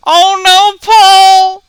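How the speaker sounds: high, loud cry of alarm. Real, not acted. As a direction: cry out in dismay at the screen. Watching Paul's fateful moment live.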